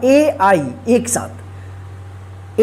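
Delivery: "ए आई एक साथ" drawn out slowly and softly; slow stressed letters. Shown as a demonstration. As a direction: stretch out "ए आई एक साथ" for emphasis. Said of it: "ध्यान रखिएगा".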